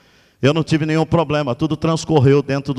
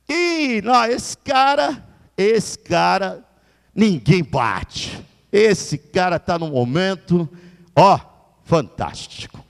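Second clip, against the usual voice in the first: high, drawn-out showman praise; a crowd cheering the local hero, higher and slow; mock boastful praise; 5 semitones higher, slower than usual. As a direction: hype yourself up like a fan.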